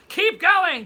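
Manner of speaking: high, loud, drawn-out call; rallying shout. Pretend. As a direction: belt it out slowly like a chant. Calling out a viewer's request.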